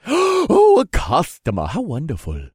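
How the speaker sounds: high delighted merchant voice; gushing. Acted. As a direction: gush over the customer. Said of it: "The man gushed".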